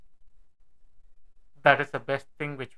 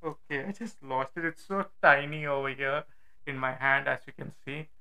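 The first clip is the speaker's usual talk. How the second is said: muffled from inside a helmet; talking with a helmet on. Real, not acted. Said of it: "It would sound weird".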